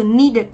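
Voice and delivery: "needed" with the ending as its own syllable; "needed" pronounced carefully as need-id; model pronunciation. Shown as a demonstration. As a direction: sound out both syllables of "needed". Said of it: "chúng ta sẽ đọc cái đuôi".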